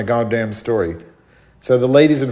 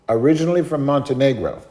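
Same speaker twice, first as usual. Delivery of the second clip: slightly raised, measured answer; lightly voiced father giving his origins; immigrant father; 4 semitones higher than usual. Father answering the cashier, lightly voiced polite reply. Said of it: "And he goes".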